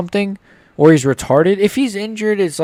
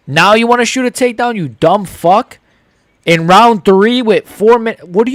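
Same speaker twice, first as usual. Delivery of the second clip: louder, furious jeer at the fighter; angry yell at the screen; 3 semitones higher, 5 dB louder than usual. Real, not acted. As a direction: scold him like he can hear you.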